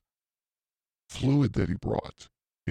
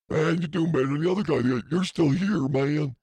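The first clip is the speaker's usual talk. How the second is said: quick, higher mock coworker voice; fast, lifted impression of the coworker; imitating Scott; 6 semitones higher than usual. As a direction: rattle it off like the cocky coworker. Voicing coworker Scott's answer.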